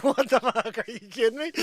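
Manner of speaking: stunned disbelief. Retold or imitated. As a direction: ask it in total shock. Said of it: "I'm like".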